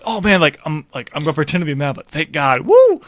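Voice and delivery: ends in a loud high whoop; relieved captain. Retold or imitated. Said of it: "he's like".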